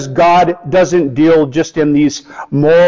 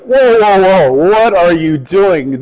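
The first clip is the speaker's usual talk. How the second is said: a cry of alarm that slows down on the question; startled Jesus; 4 semitones higher than usual. Acted. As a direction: stop them in their tracks, shocked. Jesus stopping the disciples.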